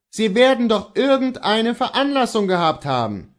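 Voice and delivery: high-pitched, pressing protest; insistent exclamation. A narrator's reading. Master presses servant about the cause, exclaiming high. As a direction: insist there must be a reason. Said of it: "rief Kohlhaas".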